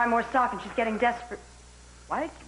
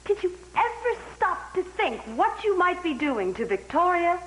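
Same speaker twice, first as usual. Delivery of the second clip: tearful plea; 3 semitones higher than usual. Acted. Pleading with partner about family.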